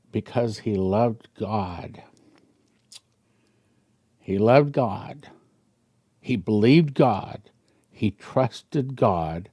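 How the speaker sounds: holding back tears over a father's love; emotional, voice catching. Real, not acted. Preacher moved to tears telling of Abraham's trust. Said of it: "I'll start getting emotional here".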